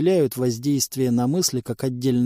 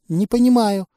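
пленница; 7 semitones higher, 4 dB louder than usual. Acted. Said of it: "ответила пленница".

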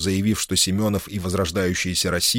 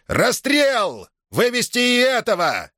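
shouting in rage; slower than usual. A narrator's reading. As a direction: scream the sentence, red with fury. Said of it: "красный от бешенства прокричал". (кричит в бешенстве, высоко и громко)

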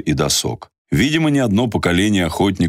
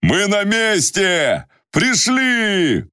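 high, slow joyful call; joyful shout; much slower than usual. Acted. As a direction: cry out with relief and joy. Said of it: "радостно закричал".

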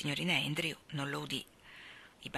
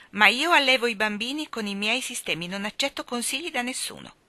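higher-pitched, firm, frosty courtesy; icy politeness; 6 semitones higher, 5 dB louder than usual. A narrator's reading. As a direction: refuse advice with cool civility. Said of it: "con gentilezza glaciale". (gentilezza glaciale e ferma)

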